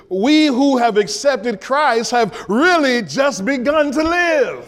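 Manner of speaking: rising to a shout on to live; preaching shout. Real, not acted. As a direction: lift the congregation, full voice. Preacher building to a climax.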